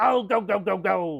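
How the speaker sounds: very slow, lisping sailor voice from side of mouth. Speaker explaining where his Angry Daddy character came from, doing a Popeye voice. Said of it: "You see how you could have taken the Popeye".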